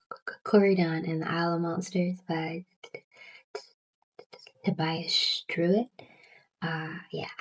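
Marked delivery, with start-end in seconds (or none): 0.1-5.9 stuck on the first sound; stuttering. Real, not acted. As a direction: repeat the opening consonant, stuttering. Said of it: "I have a stutter".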